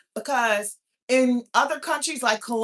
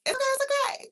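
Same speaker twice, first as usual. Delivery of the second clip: mock okay; faster than usual. Sarcastic reassurance to ex.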